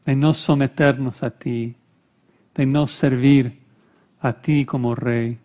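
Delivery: measured prayer with long pauses; solemn prayer. Real, not acted. Preacher imploring the Lord for the congregation, solemn prayer. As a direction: pray it gently, phrase by phrase.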